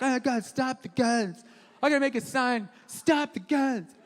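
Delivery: hammed-up hand-wringing protester, words stretched; put-on helpless activist voice; mocking liberals. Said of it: "then liberals are like".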